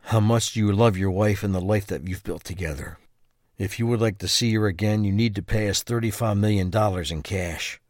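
low, quiet, menacing kidnapper's note; ransom letter. Acted. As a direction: read the threat low and cold. Kidnappers' ransom letter read aloud.

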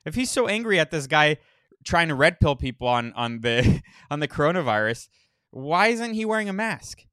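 loud disbelieving exclamation; high, loud what-the-heck; incredulous. Real, not acted. Host exclaims at clip.

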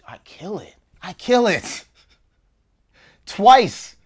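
loud, high, laughing brag; triumphant boast. Real, not acted. Telling friends he nailed the audition, loud laughing brag. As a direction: crow about nailing it.

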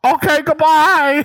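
high, bright recorded message voice; voicemail greeting voice. Pretend. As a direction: sound like an answering machine. Fake voicemail sign-off.

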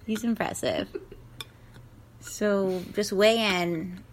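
upbeat contest host. Acted. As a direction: present the contestants like a show host. Hosting a contest.

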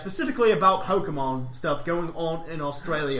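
put-on Aussie letter reading; Australian accent. Host reading Australian listener's podcast plan, put-on Australian accent. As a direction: read it with an amateur Australian accent. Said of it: "He's Australian".

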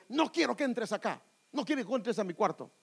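mock child's yell at a parent; shouting child. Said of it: "le grita, le levanta la voz".

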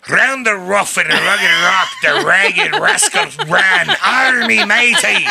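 hammed-up pirate voice, shouted; pirate accent. Shown as a demonstration. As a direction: growl it out like a pirate captain. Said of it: "So it's pirate".

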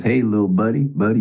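put-on country man greeting a kid, friendly; country dude. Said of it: "a country dude that says".

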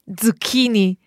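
"Zucchini" starting with a ts sound; proper Italian pronunciation. Shown as a demonstration. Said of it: "that ts sound at the beginning".

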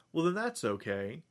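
mock agreement, with a sneer; sarcastic. The toy maker brushes off the Doctor, sarcastically.

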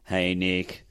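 put-on subdued, quiet take on a South African accent. Fan's voice message to a comedian, imitated South African accent. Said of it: "It's this South African guy".

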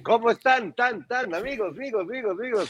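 high-pitched street DJ call; sonidero announcer. Retold or imitated. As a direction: hype it like a sound-system MC. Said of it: "así de".

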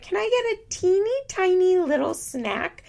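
put-on high, cutesy child asking for a treat; little kid voice. Imitating a nine-year-old asking mom for a gas station snack, in a high cute kid voice. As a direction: plead sweetly like a small kid. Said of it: "so cute that she was like".

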